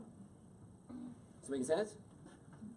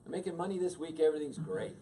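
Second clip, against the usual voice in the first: breezy dismissal; 4 semitones higher, 4 dB louder, faster than usual. Retold or imitated. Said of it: "And I go".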